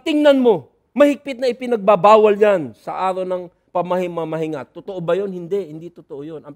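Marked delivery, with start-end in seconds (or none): 0.0-4.7 a louder, scolding Pharisee voice; Pharisees angry. Acted. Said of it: "nagsisimula ng magalit ... sa tono". (galit na pagsaway ng mga Pariseo)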